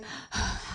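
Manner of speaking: mimed huff after running; out-of-breath puff. Acted. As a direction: puff out one winded breath.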